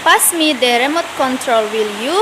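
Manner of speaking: imperative, then "will you" lifts; rising tag intonation. Shown as a demonstration. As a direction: let "you" climb after the request. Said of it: "imperatif dapat diikuti rising tag".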